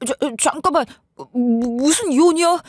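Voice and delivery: a mild stammer, voice barely shifted; flustered stammer. Retold or imitated. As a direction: stumble over the first sounds in shock. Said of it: "말을 더듬기 시작했어요".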